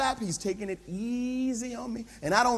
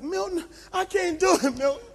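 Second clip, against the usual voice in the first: acted pleading; 9 semitones higher than usual. Exhausted pastor pleading with trainer.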